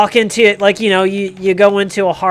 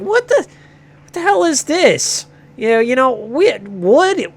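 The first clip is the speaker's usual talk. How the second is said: much higher, whiny mocking kid voice; snotty kid; 5 semitones higher than usual. Son mocks dad's whittling channel, high bratty whine. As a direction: sneer like a bratty teen at his dad. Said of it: "He's like".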